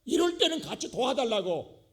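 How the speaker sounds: high, loud mock complaint to Jesus; angry Martha. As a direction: shout it like a fed-up sister stuck in the kitchen. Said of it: "마르다가 화가 나가지고".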